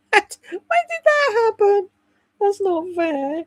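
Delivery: high, slow, laughing mock protest; laughing whine. Real, not acted. Laughing at turning sixty, she protests high and slow. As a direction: laugh it out like it's unfair.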